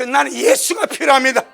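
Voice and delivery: a blind man shouting his need, tearful; loud pleading cry. Retold or imitated. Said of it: "더 크게 소리 질러버립니다".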